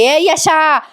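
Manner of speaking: retold angry calling-out; imitated yelling aunt. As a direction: demand it like a scolding aunt, half-voiced. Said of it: "ती आत्या ओरडत ओरडत येते".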